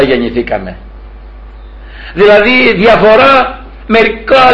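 mildly plaintive plea to God; acted complaint, lightly aggrieved; pained complaint. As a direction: lament with a touch of longing. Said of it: "είχε ένα παράπονο, είχε ένα πόνο".

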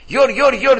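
high-pitched call in Mani dialect; Mani village dialect. Retold or imitated. Uncle calling his brother in village talk, imitated Mani dialect. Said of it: "πώς μιλάνε έτσι εκεί στη Μάνη Βλάχικα".

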